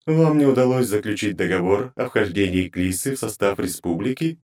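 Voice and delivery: high, grating divine voice; cold goddess interrogating her servants; inhuman goddess voice. Acted. Goddess voice continues.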